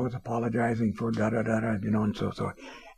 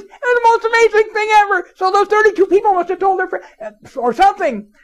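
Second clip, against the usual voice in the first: amazed boss, laughing; 11 dB louder than usual. Retold or imitated. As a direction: laugh in disbelief while announcing. Owner raves about call volume.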